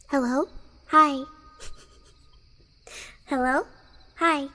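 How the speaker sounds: lightly voiced cartoon child's greeting; a hint of a game character's hello; Balloon Boy. Streamer showing viewers whom they sound like, lightly imitated character greeting. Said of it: "to me I sound like Balloon Boy".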